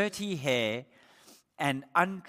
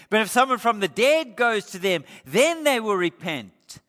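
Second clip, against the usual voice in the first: rich man's plea; 3 semitones higher, 6 dB louder than usual. Acted. Rich man begging Abraham to send someone, loud plea. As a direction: press the point urgently.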